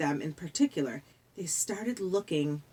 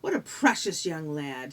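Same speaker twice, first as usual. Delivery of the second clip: put-on lightly British, foreign-tinged accent; strange British accent; 3 semitones lower than usual. The ferryman sizes up Percy in a strange British accent. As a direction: speak English with an odd British accent. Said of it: "He had a strange accent, British".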